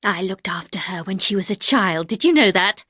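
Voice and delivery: loud and hard. Acted. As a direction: spit out the judgement. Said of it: "loud and hard".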